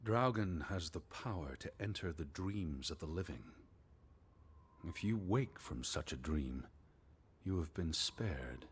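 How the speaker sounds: slow, ominous storybook narration; story reading. Acted. Reading the Draugen tale aloud to his companion, slow and ominous. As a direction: read the legend like a spooky tale.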